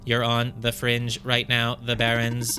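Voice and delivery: even, mechanical robot voice. Acted. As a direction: read the line like a droid. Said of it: "oh, I have to do a robot voice".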